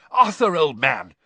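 loud, a touch out of breath; puffing. Acted. Bagman arriving at the campfire, puffing. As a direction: greet him while catching breath. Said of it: "he puffed as he reached the campfire".

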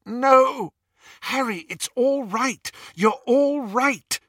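high, loud urgent calling; urgent reassurance. Acted. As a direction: shout to wake a friend from a nightmare. Friend calls him back from nightmare.

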